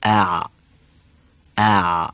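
ا as a clean glottal stop, not ع; hamza demo. Shown as a demonstration. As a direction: cut ا with a short glottal catch. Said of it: "به این شکل بشه".

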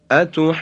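اتحاجونی chanted with a full madd; recited example. Shown as a demonstration. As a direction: recite اتحاجونی holding each madd long. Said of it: "به مثال بعدی توجه بفرمایید".

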